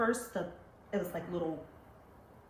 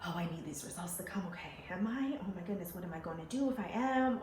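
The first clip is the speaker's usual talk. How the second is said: anxious inner voice; faster than usual. Retold or imitated. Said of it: "like, a bit anxious".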